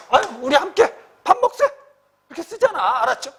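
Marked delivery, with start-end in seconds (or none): 0.1-1.6 higher, hearty invitation to eat together; elder suggestion. Shown as a demonstration. Teacher voicing an old man inviting a friend to eat, higher and hearty. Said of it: "청유문을 쓰면".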